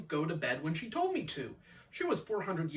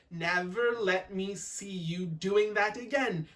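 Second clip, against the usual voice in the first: slow, rhythmic scolding; stern maid's measured telling-off; words in time; slower than usual. Acted. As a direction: poke out each word of the reprimand. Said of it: "in time with the words".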